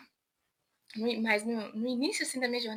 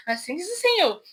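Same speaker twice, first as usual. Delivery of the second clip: a hint of prophet voice through a laugh; playful prophetic declaration, slightly higher; laughing mock prophet; 4 semitones higher, 4 dB louder than usual. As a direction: mimic the prophet while cracking up. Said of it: "com a voz de profeta".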